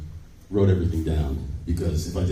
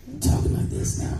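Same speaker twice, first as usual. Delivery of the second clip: high breathy whisper, mocking; hushed high mock voice; high whispered impression; 4 dB quieter than usual. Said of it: "He's like".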